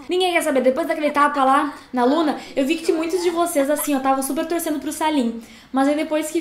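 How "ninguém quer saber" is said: louder, higher punch on "Ninguém"; emphatic repeat. Shown as a demonstration. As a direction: drive the point home on "Ninguém". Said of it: "Ninguém quer saber de ti mais". (repetindo mais alto, ênfase em "Ninguém")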